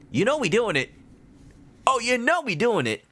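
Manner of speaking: high squeaky chipmunk voice. Acted. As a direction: pitch way up like a chipmunk. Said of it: "You hate and love the Chipmunk's voice".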